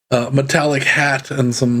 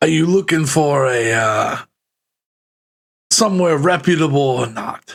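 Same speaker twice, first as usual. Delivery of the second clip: put-on New York cab driver accent. Voicing the cabbie for players asking about an inn, new york cabbie accent. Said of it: "Do your best New York accent".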